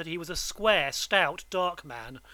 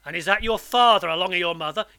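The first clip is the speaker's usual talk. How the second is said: gruff convict; 7 dB louder, faster than usual. Acted. Convict asks quickly.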